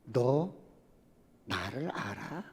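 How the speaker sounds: low, slow divine voice; deep, slow voice of God questioning the professor; God's voice. Acted. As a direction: ask it slowly and low, as God to his servant. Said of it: "하나님의 음성이 들리는".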